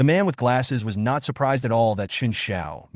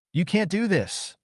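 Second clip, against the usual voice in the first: panicked; 9 semitones higher than usual. A narrator's reading. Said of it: "a little panicked".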